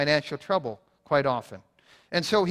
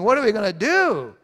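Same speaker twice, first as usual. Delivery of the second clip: higher, louder panicky angels; mock panic; 5 semitones higher, 5 dB louder than usual. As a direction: fake a frantic cry. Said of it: "freaking out and saying".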